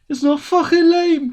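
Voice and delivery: slow, hammed-up indignant snap; angry kid retort. Kuno snapping at his mocking friend, indignant. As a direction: bite back, slow and offended. Kid snaps back, insulted.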